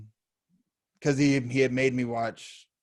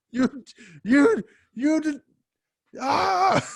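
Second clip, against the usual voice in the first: high, slow, crying stammer; hammed-up wail of betrayal; mock anguished stammer; 13 semitones higher, 5 dB louder, much slower than usual. Co-host realising he was tricked, in a hammed-up wail.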